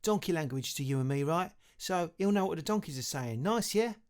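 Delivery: breezy and pleased with himself; wizard Perlin, lightly voiced. A narrator's reading. Wizard explains the update to Louis, breezy and lightly voiced. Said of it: "emailed Perlin".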